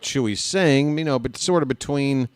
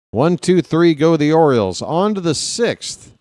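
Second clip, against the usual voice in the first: higher and louder, punching each count; excited call; 4 semitones higher, 4 dB louder than usual. Real, not acted. Announcer closing out the inning for listeners, excited. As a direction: sell the side retired with energy.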